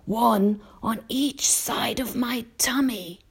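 put-on high, slow elderly insect; old grasshopper. A narrator's reading. Old grasshopper reveals where his ears are, slow and high. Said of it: "the old green grasshopper said".

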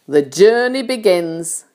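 triumphant call. A narrator's reading. Centipede announces the journey, mild triumphant shout. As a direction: proclaim it with a touch of triumph. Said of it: "shouted the centipede".

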